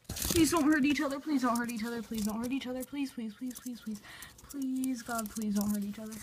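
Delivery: real anxious begging, repeated like a chant; anxious pleading. Real, not acted. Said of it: "I'm scared to death".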